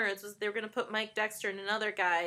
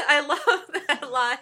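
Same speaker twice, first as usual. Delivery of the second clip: normal talking voice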